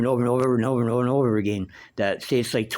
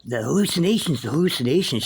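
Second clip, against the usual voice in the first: higher, repeated moaning as the sick mother; imitating delirious mother; 6 semitones higher than usual.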